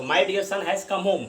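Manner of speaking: slow, clear dictation; slow example reading. Shown as a demonstration. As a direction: spell the sentence out slowly. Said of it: "तो".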